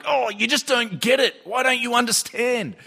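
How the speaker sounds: high-pitched exasperated mock complaint; acted frustration. Christians looking at unbelievers, acted frustration and anger. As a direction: voice rising in put-on exasperation. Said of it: "with frustration and anger".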